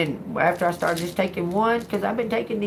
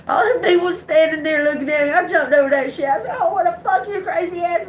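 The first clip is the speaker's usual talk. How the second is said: high, fast, louder indignant outburst; outraged yell replayed mid-story; worked-up retelling; 11 semitones higher, 5 dB louder than usual. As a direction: tell it incredulous and fired up, pitch way up. Acting out angry outburst after burn.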